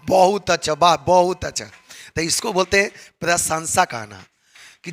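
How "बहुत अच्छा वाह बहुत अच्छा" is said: light cheering, a touch louder; mock appreciative wah; mild praise. Shown as a demonstration. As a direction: say wah like a pleased listener. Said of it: "बोलता है कि".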